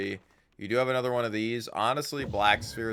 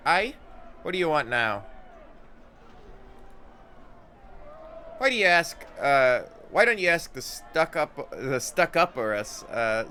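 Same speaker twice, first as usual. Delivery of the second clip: curt, raised Scots-tinged warrior voice, a bit higher; gruff Anna; 4 semitones higher, 4 dB louder than usual. Acted. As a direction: snap back at the party, irritated.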